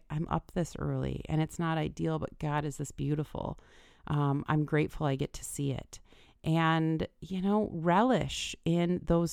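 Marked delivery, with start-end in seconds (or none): 0.1-6.0 grateful. Pretend. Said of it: "I really want you to just try to say".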